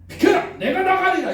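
high, loud heroic declaration; bold cry. Acted. A brave king volunteering for battle, loud bold cry. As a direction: push everyone aside and volunteer. King should step forward.

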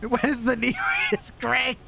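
put-on high-pitched Newcastle accent, half laughing; mock Newcastle accent. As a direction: squeak it out in comic Newcastle. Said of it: "only road man in Newcastle".

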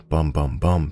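quick, mild imitation of drumbeats; three verbal beats mimicking a distant drum; imitated drum pattern. Narrator demonstrates the chanting's drum rhythm, lightly imitated beats. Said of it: "It went in a quick".

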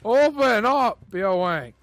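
lightly voiced action-hero bellow; Schwarzenegger. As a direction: bark it like someone storming in. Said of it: "There's gonna be the Schwarzenegger".

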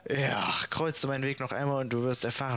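hammed-up vainglorious knight announcing himself; boastful knight. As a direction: puff yourself up like a self-important knight and proclaim each word. Reads boastful knight's dialogue.

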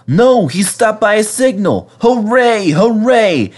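high, loud relieved cheer; cheering bus. A narrator's reading. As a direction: burst out hooraying. Bertie cheering again.

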